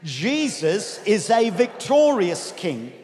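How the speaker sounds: slow, emphatic declaration; excited group confession. Real, not acted. Preacher urges congregation to say it excitedly, declaring. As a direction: declare it so all can join in. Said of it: "let's say this excitedly".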